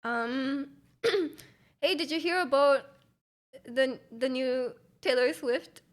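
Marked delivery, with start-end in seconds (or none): 1.8-5.8 badly faked Canadian accent, slowing midway; half-hearted stab at sounding Canadian; attempted Canadian accent. Streamer trying talk about a singer in a failed Canadian accent. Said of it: "I can't do a Canadian accent".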